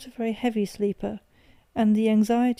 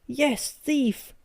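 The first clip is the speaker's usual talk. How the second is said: higher, angry roar; 4 semitones higher than usual. A narrator's reading. Father roaring at his son while shaking him, angry. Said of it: "I roared".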